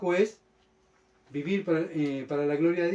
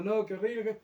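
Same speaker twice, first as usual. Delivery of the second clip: mock whining, raised pitch; queja llorona fingida; 4 semitones higher, 4 dB quieter than usual. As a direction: imitate someone moaning, a little higher. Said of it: "andamos llorando y quejando". (quejido burlesco y agudo)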